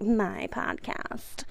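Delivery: slow, breathy mock-proud drawl on My podcast; mock vain. Teasing herself about owning the podcast, mock vain. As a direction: stretch My podcast out, playfully self-important. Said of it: "Look at me being all, like, vain".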